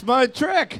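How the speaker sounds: slow, high mock seductress; sultry voice. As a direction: purr it out like a temptress. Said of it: "I lure you in with my sultry voice".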